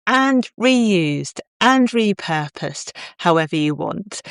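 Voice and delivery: bright promotional sponsor read; upbeat host ad break. Acted. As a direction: sell it like a podcast ad. Recorded podcast ad read.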